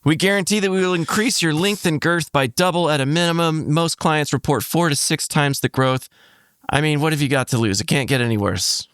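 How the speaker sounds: deadpan sponsor read for a joke product; mock ad read. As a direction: sell it like a radio spot.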